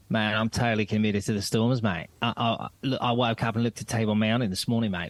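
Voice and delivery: imitated Australian coach at a press conference; mock Australian accent. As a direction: put on a light Aussie accent. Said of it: "he gave a speech in a press conference going".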